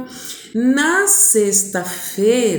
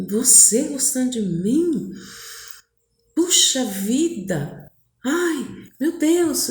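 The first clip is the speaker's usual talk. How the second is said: imitating a delighted suitor, drawn out; slow, mock-amazed joy rising at the end; retold happy disbelief; 3 semitones higher, slower than usual. Boy hears she likes him, retold happy disbelief. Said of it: "E ficou todo feliz".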